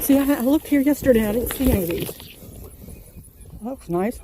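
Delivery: chewing while talking; mouth full. Real, not acted. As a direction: talk through a bite of cucumber. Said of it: "Sorry, I'm chewing".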